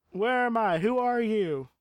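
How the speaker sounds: booming arrogant alien overlord. Pretend. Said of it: "say that in a booming voice".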